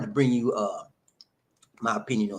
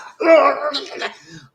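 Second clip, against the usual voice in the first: loud, high grossed-out squeal; mock crying wail; 9 dB louder than usual. Host reading about scabs, hammed-up crying wail. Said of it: "I'm about to cry".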